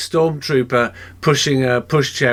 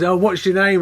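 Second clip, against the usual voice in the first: retold shout; 7 semitones higher than usual. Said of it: "I just shouted".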